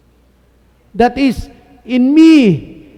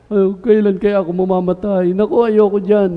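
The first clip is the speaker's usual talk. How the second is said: mock fearful. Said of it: "undefined fear tayo".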